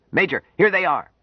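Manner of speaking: high, loud call to the major. Acted. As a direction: sergeant shouting across the room, loud and high. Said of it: "He called out".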